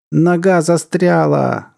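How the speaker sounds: high, slow strained shout; alarmed, drawn-out yell; crying out. A narrator's reading. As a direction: cry out, stretching the words. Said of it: "закричал он".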